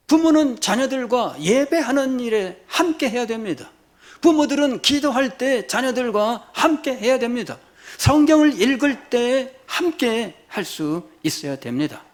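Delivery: high, insistent pulpit exhortation; forceful preaching. Real, not acted. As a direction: press each duty on the parents.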